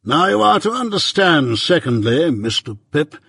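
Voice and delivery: measured, stern lawyer, lightly voiced; Jaggers.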